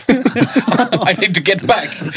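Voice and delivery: high, slow, laughing plea; mock panicked stranded voice. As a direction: whine it out while laughing. Mimicking stranded friend.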